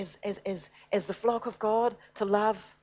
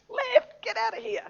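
sudden high frantic cry to flee; panicked troops. Retold or imitated. Soldiers panicking as they abandon the field, frantic high cry. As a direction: yelp it like a fleeing soldier.

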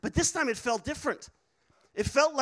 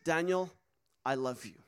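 simple, low, tender declaration; simply said; 5 semitones lower, 3 dB quieter than usual. Retold or imitated. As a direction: say it simply, lower, with a pause after the name. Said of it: "Very simply said".

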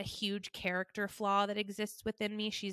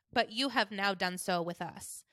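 mom's tone. Retold or imitated. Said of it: "this is how she talks".

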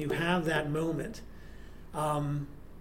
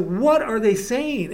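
slow, louder mock yell, word by word; retold yell; 4 semitones higher, 5 dB louder, much slower than usual. Repeating it to his friend in the noisy club, mock yell. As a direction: yell it slowly as if over noise. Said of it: "And I, and I yell into her".

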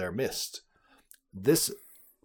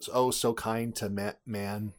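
sarcastic. Acted. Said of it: "you can't see sarcasm in a audio podcast".

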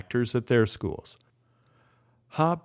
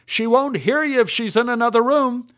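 higher and louder, still shouting; yelling on; 11 semitones higher, 6 dB louder than usual. Retold or imitated. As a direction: keep hollering the coaching. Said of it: "yelled Milton".

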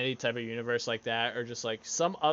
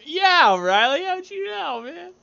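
high, loud hammed-up amazement; mock delighted surprise; 8 dB louder, slower than usual. Host acts amazed at friend's offer, mock delighted surprise.

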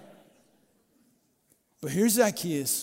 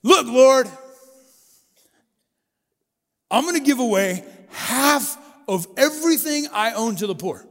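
loud, much higher, bursting with resolve; exuberant declaration; 5 semitones higher, 6 dB louder than usual. Retold or imitated. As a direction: proclaim it like a changed man standing at the meal. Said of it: "stands up ... and says".

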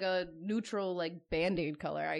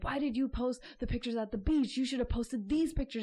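higher-pitched imitation of an angry husband; mock-indignant scolding, pitched up; retold angry demand; 6 semitones higher, 3 dB louder than usual. Retelling a husband coming crazy at her over pictures, mock angry. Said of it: "coming crazy at her".

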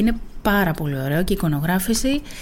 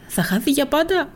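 anxious; 6 semitones higher than usual. Acted. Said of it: "ρώτησα ολογωνία".

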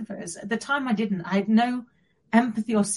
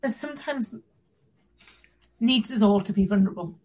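still tearful; 2 semitones higher than usual. Real, not acted. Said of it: "Having me sob all over you".

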